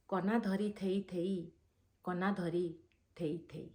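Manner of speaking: measured verse recital with repeated lines; poem recitation. Acted. Reciting a satirical poem for online viewers, measured poem recitation. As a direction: recite in rhythm, pausing before the closing word.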